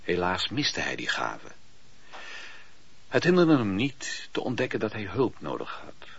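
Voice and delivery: ordinary delivery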